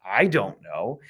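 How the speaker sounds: "I" stressed, then "don't know" following. Shown as a demonstration. Teacher repeating the English emphasis, stress on "I". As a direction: put the weight on "I". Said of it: "if you wanna emphasize the".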